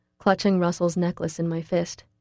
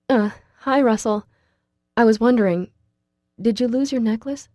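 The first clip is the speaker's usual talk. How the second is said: tense, higher, louder; tight voice; 4 semitones higher, 4 dB louder than usual. Acted. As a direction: hold it tight and nervous. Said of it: "I say in a tight voice".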